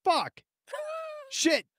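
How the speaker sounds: a hint of a small kid reciting swears; lightly voiced child blurting curses; little girl swearing. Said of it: "then she's like".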